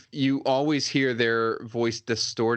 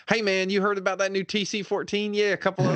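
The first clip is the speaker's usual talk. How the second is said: put-on Boston trooper accent; 10 semitones higher than usual. Stormtrooper gossiping with a buddy on the Death Star, mock Boston accent. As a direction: chat like a Boston grunt on guard duty. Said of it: "that's how they really sounded".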